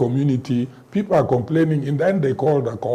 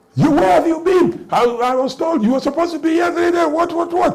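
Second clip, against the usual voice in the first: mock shouting, much higher pitch. Retelling how a woman shouted at him when she saw him, imitating her shouting. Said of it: "She starts shouting".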